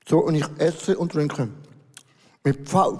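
chewing while talking; speaking through a bite of food; mouth full. Real, not acted. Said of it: "schmatze ich auch noch".

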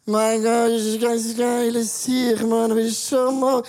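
slurring tipsy rambling; drunk voice. Retold or imitated. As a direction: play a drunk guy. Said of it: "merkst du, die Sprache wird komisch".

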